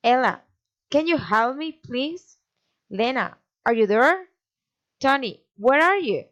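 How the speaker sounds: names lifted, as in ELLA and LENA; lilting address, pitch up on the name ELLA; direct address intonation. Shown as a demonstration. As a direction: call the name, pause, then the question, as in TONY. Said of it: "rising intonation".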